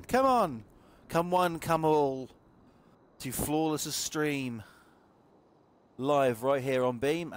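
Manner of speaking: slow showman call to the crowd; announcer voice. Acted. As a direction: roll it out like a fairground barker. Inviting viewers to stream.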